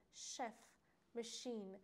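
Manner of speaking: شف and ماشین pronounced with ch as "sh"; "sh" sound in شف، ماشین. Shown as a demonstration. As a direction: say شف and ماشین with a clear "sh".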